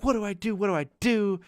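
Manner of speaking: high-pitched imitation of frantic pleading; put-on helpless panic; mock panicked cry. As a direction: wail it like someone panicking, without shouting. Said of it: "She's, like, fucking screaming".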